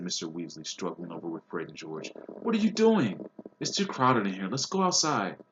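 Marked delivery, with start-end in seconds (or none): 2.4-5.4 high, loud fatherly alarm; urgent. A narrator's reading. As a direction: pull the boys apart with your voice. Father breaks up the quarrel.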